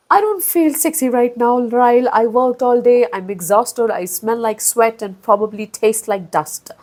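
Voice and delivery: mocking the heroine's line to viewers; quoting Lily. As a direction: lightly mimic the heroine's reply. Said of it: "then she says this".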